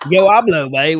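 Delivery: put-on Spanish in a loud Southern redneck accent. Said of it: "with my southern redneck accent".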